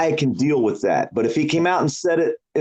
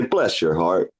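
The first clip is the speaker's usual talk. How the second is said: put-on sweet old lady; 8 semitones lower, slower than usual. Southern old lady insulting someone politely, lightly voiced. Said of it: "they look at you and say".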